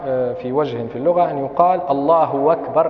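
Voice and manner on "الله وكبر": أكبر said wakbar after allahu; hamza as waw. Shown as a demonstration. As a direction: glide into أكبر with a w. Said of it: "بإبدال الهمزة واوا". (همزة أكبر تُنطق واوًا)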